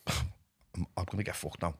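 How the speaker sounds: low, scared murmur to self; fearful inner voice, breath thin and low; hushed panic. Retold or imitated. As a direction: half-whisper the dread, low and soft. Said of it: "it's like".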